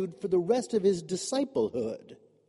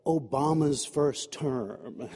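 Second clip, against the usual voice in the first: evocative phrase; 5 semitones lower, much slower than usual. Shown as a demonstration. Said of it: "words and phrases that I knew would pull you particularly in".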